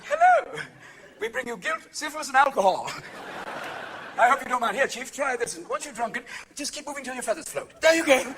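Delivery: high, bright sing-song start; cheery pilgrim greeting. Acted. Puritans landing in America greeting natives, sing-song. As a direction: welcome them falsely sweet.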